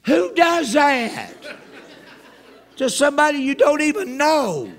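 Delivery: high, loud comic disbelief; incredulous outrage. Acted. Storyteller appeals to crowd over stranger's rude question, incredulous. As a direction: ask it loudly, aghast at such nerve.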